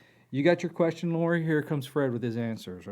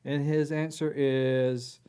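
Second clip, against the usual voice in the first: higher, louder, slow drawn-out oracle voice; Fred voice; 3 semitones higher, 7 dB louder, slower than usual. Acted. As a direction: speak as a slow booming spirit oracle. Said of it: "do you need Fred to have a different voice than Zoltar".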